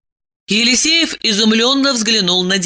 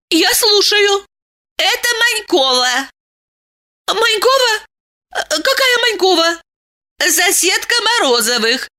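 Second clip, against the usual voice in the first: lightly voiced women; 9 semitones higher than usual. A narrator's reading. Phone call, Diana and neighbour.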